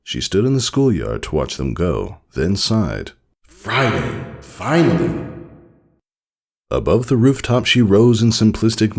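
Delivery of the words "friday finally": relieved cheer. Acted. Relieved end of week.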